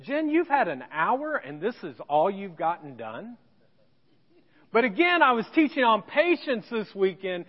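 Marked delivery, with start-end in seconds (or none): 0.0-3.4 imagined reproach. Retold or imitated. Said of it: "I wanted to say something like this".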